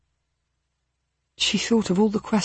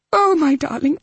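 tender repetition; 9 semitones higher, 3 dB louder than usual. Acted. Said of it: "Mitzi was saying over and over again".

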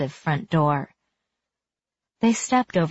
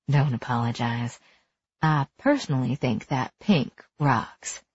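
a hint of a lower, softer man; Julian, gently, a touch lower; lightly voiced man; 3 semitones lower, 3 dB quieter than usual.

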